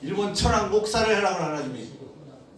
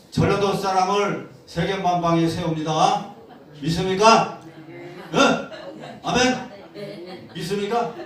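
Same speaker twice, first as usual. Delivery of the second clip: laughing rally; 2 semitones higher, 4 dB louder than usual. Real, not acted. Preacher rallying the congregation.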